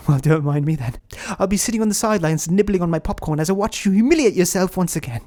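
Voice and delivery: mocking British voice, rising after a small laugh; fake British accent. Inner critic settling in to watch him fail, mocking British accent. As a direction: sneer playfully in a put-on British accent. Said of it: "your fake British accent".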